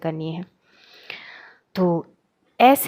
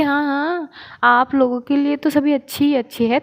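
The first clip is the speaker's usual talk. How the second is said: teasing sulky retort, higher; mock grumbling; 4 semitones higher than usual. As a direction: grumble it in jest. Teasing reply to teacher. (चिढ़ाते हुए शिकायत)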